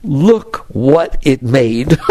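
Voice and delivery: slow, hushed wonder at creation; slow awe. Retold or imitated. A yogi marveling at the world, slow and awed. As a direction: let the wow sink in slowly. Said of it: "You start with".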